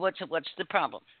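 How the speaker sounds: ordinary delivery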